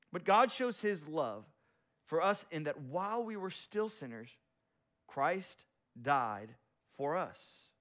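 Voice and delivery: solemn proclamation; scripture reading. Acted. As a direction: proclaim it from the pulpit, slowing at the end. Reading Romans passage.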